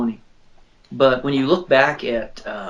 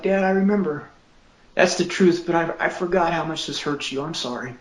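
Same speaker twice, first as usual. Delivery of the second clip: imitated son, higher and emotional, falling away at the end; retold tearful apology; 5 semitones higher than usual. Son apologizes to Dad after reading, imitated tearfully. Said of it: "he was just sitting there crying".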